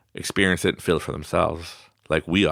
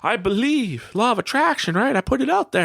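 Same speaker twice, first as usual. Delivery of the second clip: mock lazy procrastinator; 11 semitones higher than usual.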